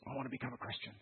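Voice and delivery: quiet earnest reply; soft reply. Retold or imitated. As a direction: say it gently, almost under the breath. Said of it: "He goes".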